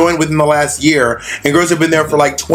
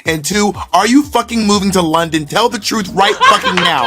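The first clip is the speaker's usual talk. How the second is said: higher-pitched, emphatic mock grilling; mock interrogation; 4 semitones higher than usual. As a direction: demand answers in a raised, theatrical voice. Acted grilling of Lawrence.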